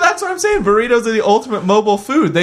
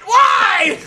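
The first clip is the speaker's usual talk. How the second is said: exasperated whine; 14 semitones higher than usual. Pretend. Whining at movie logic.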